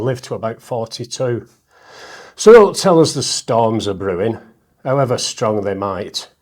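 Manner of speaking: recites the rhyming verse with a steady comic beat; punchy rhymed recitation landing each closing line; poem reading. Acted. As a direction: perform it like a stand-up poet at a gig. Reads his poem aloud.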